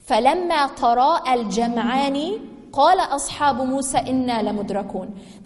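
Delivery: fast melodic Quranic recitation. Acted. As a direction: chant the verse quickly, melodically.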